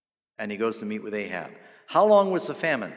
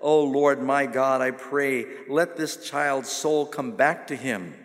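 earnest cry; slower than usual. Acted. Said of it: "he cried out to the Lord".

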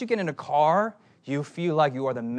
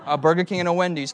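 usual speaking voice

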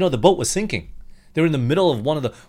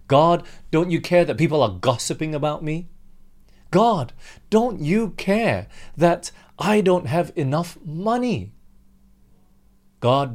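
angry complaint to God; 3 semitones higher than usual. Acted. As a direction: vent frustration at God, line after line. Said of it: "talk that way".

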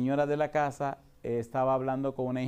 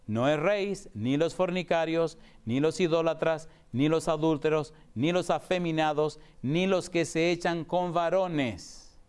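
slow, measured Bible reading, each ni los weighed; scripture reading; 2 semitones higher than usual. Acted. Preacher reads Corinthians to congregation, slow solemn reading. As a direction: read the verse list out deliberately, slowing.

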